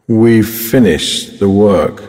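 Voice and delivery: slow, low and flat; bored or sad. Shown as a demonstration. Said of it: "according to the speaker's tone of voice".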